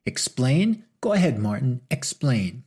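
a touch of bitter mockery. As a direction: throw his word back at him. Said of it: "voice raised in pitch and volume".

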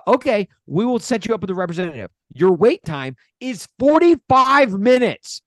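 automated phone announcement. Retold or imitated. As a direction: imitate a hold message, hammering the wait time. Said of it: "they were finally like".

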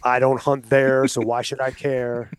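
a light Southern twang on a scoffing hunter; a hint of Southern accent, half-hearted. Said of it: "sorry for doing the Southern accent on that".

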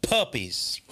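whispered puppies. Acted. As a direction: breathe the word, unvoiced.

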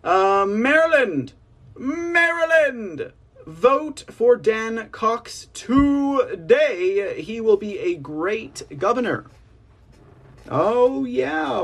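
a rally crowd chant, stretching every word; President Trump. Retold or imitated. Host voicing the ex-president's rally plug for a candidate, high and drawn-out. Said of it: "final statement from President Trump".

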